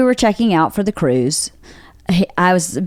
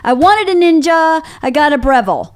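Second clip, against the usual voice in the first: muttered rant; 6 semitones higher than usual. Retold or imitated. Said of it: "talking to myself, going".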